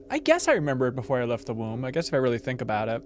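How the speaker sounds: usual speaking voice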